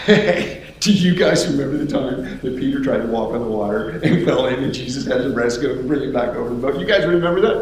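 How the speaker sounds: laughing, jokey reminiscing; amused ribbing; teasing through laughter. Acted. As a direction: tease a buddy round the campfire. Thomas teases Peter at campfire.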